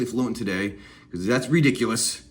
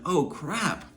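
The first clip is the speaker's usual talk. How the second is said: amazed; 4 dB quieter than usual. Retold or imitated. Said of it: "you're like".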